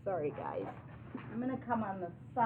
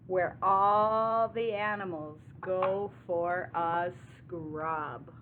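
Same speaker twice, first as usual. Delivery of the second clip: slow, drawn-out read-aloud; measured picture-book narration; story reading to children; 4 dB louder, slower than usual. A narrator's reading. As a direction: stretch the key words for little listeners.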